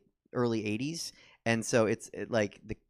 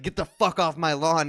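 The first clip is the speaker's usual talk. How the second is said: higher, louder mock-angry outburst; yard gnome with attitude; 7 semitones higher, 9 dB louder than usual. Tiny yard gnome warning off a trespasser, mock-angry yell. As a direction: yell it with feisty, hammed-up attitude. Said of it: "with attitude. He's like".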